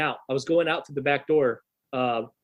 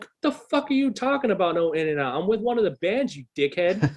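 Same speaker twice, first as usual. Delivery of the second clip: higher-pitched indignant mock rant at the guard; indignant teen snapping at security, pitched up; retold angry outburst; 4 semitones higher than usual. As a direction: replay your teenage fury at the bouncer, pitched up. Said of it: "So I'm starting to get irate".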